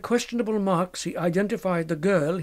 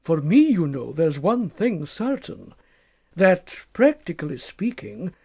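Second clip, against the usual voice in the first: put-on knowing young doctor. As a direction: sound amused and sly. Narrator voices Macfarlane.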